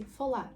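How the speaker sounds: ФАЛАР ending on a light tapped R; soft final R. Shown as a demonstration. Teacher repeats correct ending, soft-R ФАЛАР. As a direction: let the R of ФАЛАР land gently. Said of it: "м'якенька".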